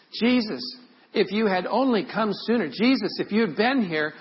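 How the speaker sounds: high, loud, mock-tearful lament; anguished reproach. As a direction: plead in grief, stretching the final words. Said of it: "they are weeping and crying".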